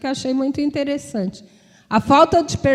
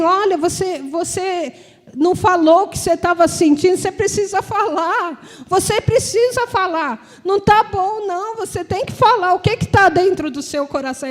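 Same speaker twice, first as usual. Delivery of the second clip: higher, urgent pleading; insistent sister; 4 semitones higher than usual. Retold or imitated. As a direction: push her to open up. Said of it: "minha irmã ... falou assim". (irmã insiste que ela fale, tom mais agudo e urgente)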